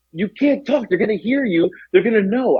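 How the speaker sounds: pleading, lightly acted fear; paranoid warning. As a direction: act out stoned paranoia, warning a friend. Paranoid warning to friend, retold.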